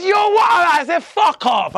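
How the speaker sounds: loud, high retold shouting; heated phone quarrel. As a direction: raise pitch and volume as the retold call erupts.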